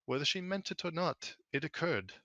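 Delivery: lightly clipped, measured official; clipped authority. Acted. Tenora steps forward to answer the plea, clipped and authoritative. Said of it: "her voice is, like, a little more clipped, but there's an intelligence and a, an authority there".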